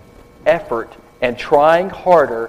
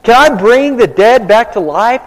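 higher and louder, a frantic outcry; panicked king; 7 semitones higher, 4 dB louder than usual. Retold or imitated. King of Israel panics at the general's demand, loud and high. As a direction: cry it out like a king who's lost his nerve. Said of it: "the king tears his robe and says".

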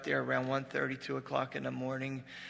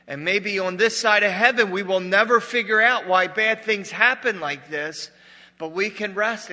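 loud, raised preacher's voice; full-force preaching; 6 semitones higher, 13 dB louder than usual. Real, not acted. Preacher admitting we won't understand suffering, at full force. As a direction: belt it out to the whole congregation.

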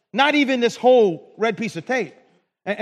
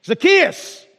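higher-pitched call, pushed out; calling out by name; 7 semitones higher, 3 dB louder than usual. Acted. Jesus calls Zacchaeus in the tree, calling out. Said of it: "called him by name".

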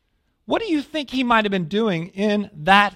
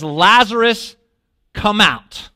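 retold shout; 5 dB louder than usual. Jesus shouting to a dead man in the cave, loud summons. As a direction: call the dead man out, louder. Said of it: "Jesus is shouting to a dead man".

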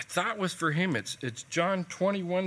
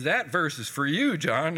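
mildly frustrated, pointed stress on "you"; frustrated comeback, a touch louder; frustrated retort; 2 semitones higher, 4 dB louder, slower than usual. Retold or imitated. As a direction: imitate an exasperated pastor pushing it back. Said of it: "and he's all frustrated".

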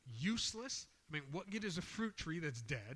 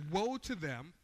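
raised, forceful warning; emphatic scripture reading; 4 dB louder than usual. Shown as a demonstration. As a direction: read it out with weight. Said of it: "I apologize if I get a little bit loud".

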